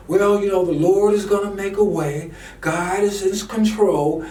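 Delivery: preacher parodying passive Christians, sluggish and mocking; mocking complacent believers. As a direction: imitate the idle churchgoer's easy excuse. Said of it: "quit sitting around, saying".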